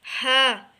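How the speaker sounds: हा pushed out from the throat, loud. Shown as a demonstration. Teacher showing a throat letter, from the throat. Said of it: "ये हलक से पढ़ना है".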